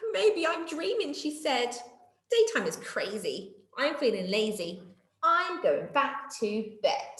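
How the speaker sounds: lightly drowsy, slowing voice; drifting off to sleep; sleepy. Acted. Sleepy monkey going to bed.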